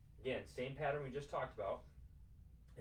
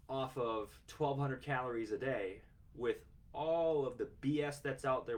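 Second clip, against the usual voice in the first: building emphasis; 4 dB louder than usual. Real, not acted. Coach challenging his viewers about calorie choices, building louder and slowing. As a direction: repeat the question louder each time, then slow right down.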